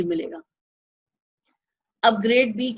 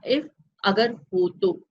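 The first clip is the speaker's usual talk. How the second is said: slow explanation; much slower than usual. Shown as a demonstration. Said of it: "simple समझिए".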